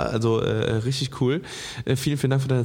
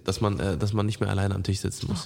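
whispering; 5 semitones lower, 5 dB quieter than usual. Real, not acted. Unvoiced aside on virtual dining.

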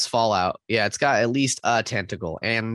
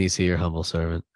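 Jar Jar voice; 4 semitones lower, faster than usual. Retold or imitated. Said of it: "Jar Jar quotes in your best".

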